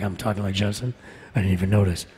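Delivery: low, subdued hero voice; Adam Jensen. Retold or imitated. Husband replying to his wife, low hero voice. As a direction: answer low and soft, in character. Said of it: "why are you talking like Jensen?".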